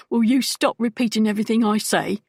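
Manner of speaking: exasperated outburst at the echoing thug; irritable. Acted. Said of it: "the first man said irritably".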